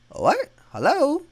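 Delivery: high, loud startled call into the dark. Real, not acted. Spooked gamer calls out to empty room, loud and high.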